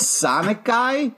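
high, slow crackly crone; old crone voice. Retold or imitated. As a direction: draw it out like an old hag. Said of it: "she goes".

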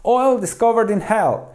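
a touch of a storyteller's shout; mild narrated yell. A narrator's reading. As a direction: call out the news, understated. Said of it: "cupped his hands and yelled".

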